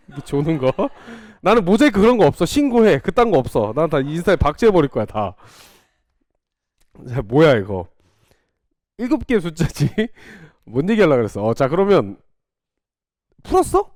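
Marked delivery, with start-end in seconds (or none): 1.4-3.7 playful defiance. Real, not acted. Teacher jokingly daring students. 13.4-13.9 high surprised check. Real, not acted. Checking students solved it.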